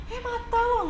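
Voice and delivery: hammed-up rude shout; rude snap. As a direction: snap at a litterer like a rude local. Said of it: "nggak yang gini".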